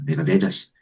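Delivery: hushed admission; whispered. Acted. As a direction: confess it in a whisper. Naming anger at oneself.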